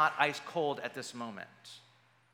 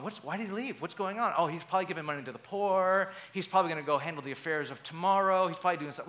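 puzzled disciples; 3 semitones higher, 3 dB louder, much faster than usual. Retold or imitated. Preacher voicing disciples guessing why Judas left, fast and loud. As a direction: rattle off guesses like baffled friends.

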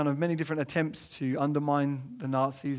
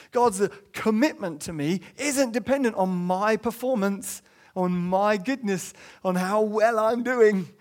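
emphatic preaching; 4 semitones higher, 5 dB louder than usual. Acted. Preaching climax on grace.

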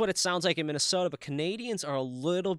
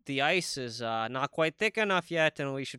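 put-on hesitant, rambling Minnesotan accent; totally Minnesota. Minnesotan musing about ice fishing, hesitant Minnesota accent. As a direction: think it over aloud in a Minnesota accent. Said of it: "that's totally Minnesota".

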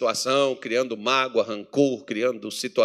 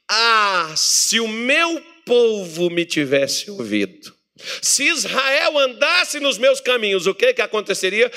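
slow, higher, sorrowful lament as God; 6 semitones higher, 3 dB louder, slower than usual. Acted. God laments that Israel never listened, sorrowful. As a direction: sigh out God's longing for his people. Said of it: "Deus dá um lamento".

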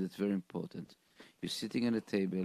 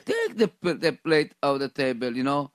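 emphatic insistence; 3 semitones higher, 7 dB louder than usual. Real, not acted. Insisting on clearing plates.

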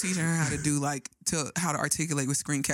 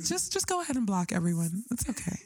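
imitating sweet reassurance; 2 semitones higher than usual. Host imitating Camille soothing a worried caller, sweet and gentle. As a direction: lightly play the kind friend soothing her. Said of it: "Camille said it so nice".

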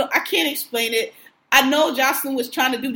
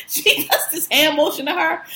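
laughing; 4 semitones higher than usual. Real, not acted. Laughing retelling.

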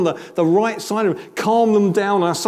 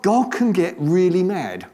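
provocative. Shown as a demonstration. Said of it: "I just said that provocatively".

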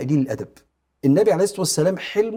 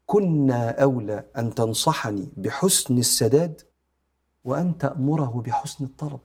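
gentle and merciful. Acted. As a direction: correct him kindly, without any edge. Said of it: "في تؤدة ورحمة".

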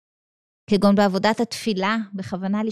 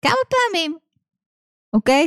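mock exasperation; 5 semitones higher than usual. Mock exasperated self-questioning.

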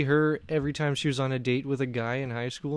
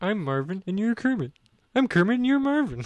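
higher mock cartoon dialogue; bad Marvin and Kermit; 7 semitones higher than usual. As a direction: trade silly raised impressionist voices. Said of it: "Kermit the Frog talking with Marvin the Martian".

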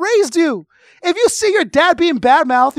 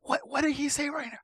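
hushed, much softer whisper in a dark cinema; mock theater whisper; 15 dB quieter than usual. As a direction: whisper so the row behind won't hear.

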